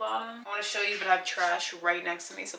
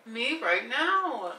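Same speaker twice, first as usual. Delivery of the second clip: drawn-out craving; 4 semitones higher, 3 dB louder, much slower than usual. Shown as a demonstration. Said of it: "It's craving".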